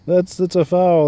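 put-on high, outraged old man yelling at the court; mock tantrum of a grumpy old tennis star; old McEnroe flipping out. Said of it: "He'd be flipping out".

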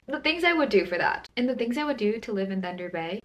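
ordinary talk

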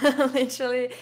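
real laugh spilling over the word. Real, not acted. Guest laughing as she calls her coach family.

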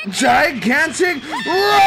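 slow drawn-out move callout; calling out a move. Real, not acted. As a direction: announce the attack like a hype shout.

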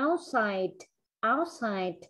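OUTSIDE with a released ending; clear final sound. Shown as a demonstration. Teacher corrects student's endings, OUTSIDE with audible final consonant. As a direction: let the last consonant of OUTSIDE pop. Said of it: "Phải bật cái âm đuôi".

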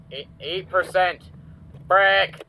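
loud, slow alarmed cry; panicked shout. Real, not acted. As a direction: blurt it out in panic. Power nearly gone.

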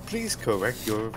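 flat robotic computer voice. Pretend. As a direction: speak it like a robot. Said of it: "robotic voice".

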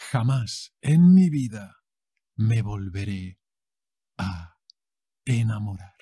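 "Jamás" flung out loud, then sinking. Acted. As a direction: swear it to the friends with full drama. Heartbroken heroine vows again.

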